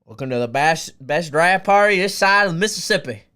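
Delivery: put-on light Southern accent, rising into the welcome. Streamer welcoming viewers to his draft party, Southern accent. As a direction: welcome folks in a Southern twang. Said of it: "best Southern accent I've ever had".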